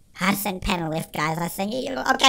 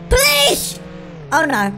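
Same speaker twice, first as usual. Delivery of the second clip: alarmed shout; slower than usual. Real, not acted. Gamer spotting police, alarmed cry.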